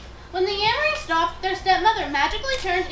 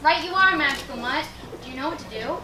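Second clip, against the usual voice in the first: fairy frog mother; 4 semitones lower than usual. Acted.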